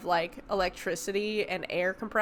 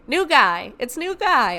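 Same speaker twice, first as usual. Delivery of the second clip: excited reveal; 5 semitones higher, 6 dB louder, slower than usual. Real, not acted. Delighted reveal of stalker.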